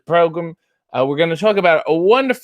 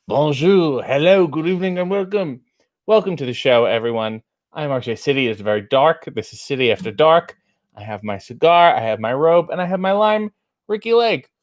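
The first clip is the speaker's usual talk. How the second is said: showman host. Acted. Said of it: "he's welcoming the people".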